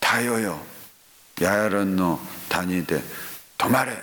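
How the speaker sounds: retold loud command. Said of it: "ヨシュアがね、大声で".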